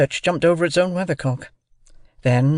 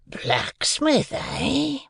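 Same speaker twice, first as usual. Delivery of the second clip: brooding convict; 12 semitones higher, 5 dB quieter, much slower than usual. A narrator's reading. Convict hears of a blacksmith in the family, brooding. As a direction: pitch swooping up, questioning. Convict ponders boy's answer.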